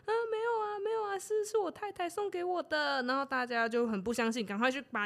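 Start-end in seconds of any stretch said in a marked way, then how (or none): 0.1-3.0 much higher, squeaky frightened pleading; arrested husband begging the lord, high and panicked; panicked denial. Acted. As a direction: plead for your life, voice shooting up.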